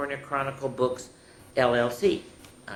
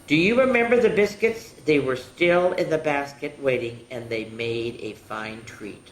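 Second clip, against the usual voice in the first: put-on children's storytime reading; 2 semitones higher, 3 dB louder than usual. A narrator's reading. Finishing up Little Red Riding Hood for children, storytelling voice. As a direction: draw the children in, then ease down to the ending.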